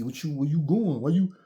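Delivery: lightly voiced desperate ex; pleading boyfriend. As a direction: act out the guy begging her to stay.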